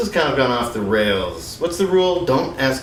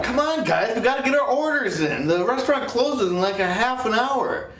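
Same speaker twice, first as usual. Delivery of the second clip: high-pitched calling; 10 semitones higher than usual. Acted. Calling friends to order food.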